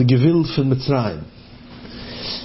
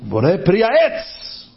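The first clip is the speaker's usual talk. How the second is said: mock shouted blessing, rising at the end; emphatic drawn-out declaration, imitating a shouter; retold cry; 5 semitones higher, much slower than usual. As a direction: call it out slowly, pitch climbing. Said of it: "Einer schreit".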